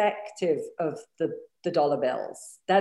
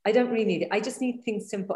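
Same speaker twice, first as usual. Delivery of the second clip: voicing self-denying women; 4 semitones higher than usual. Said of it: "women take themselves out of the game".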